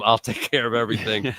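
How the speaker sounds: a hint of Rosie's voice, rising at the end; lightly voiced Rosie. Teasing Rosie on air with his catchphrase, lightly voiced. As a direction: lightly put on his reassuring tone. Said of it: "That should be his middle name".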